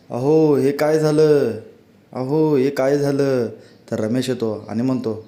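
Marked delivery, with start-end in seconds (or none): 0.1-1.5 slow, lightly raised alarmed cry of अहो; wife calls her husband in alarm over spoiled masala, mild slow cry out; mild mock cry out. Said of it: "ती ओरडू लागते".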